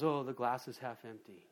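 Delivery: understated pessimist groan; frowning pessimist. Retold or imitated. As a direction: sag into a mild mopey tone.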